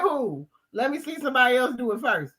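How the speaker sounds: a hint of a scared follower; imitating reluctant man. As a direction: play the guy ducking the job. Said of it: "he like".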